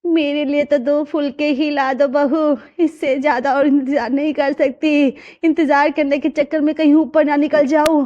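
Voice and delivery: mock-dramatic elder who can't wait; complaining old lady. Grandmother asking the bride for rotis, mildly grumbling.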